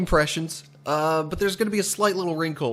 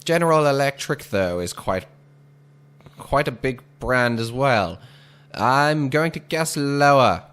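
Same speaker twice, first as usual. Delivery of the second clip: 1940s radio announcer voice; lightly voiced old-time announcer; old radio serial. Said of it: "This is really what I would just call my radio announcer voice".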